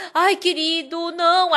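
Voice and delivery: imitated worried wife, drawn out; lightly voiced fretful plea; pleading. Wife begging her husband to stop fighting, pleading.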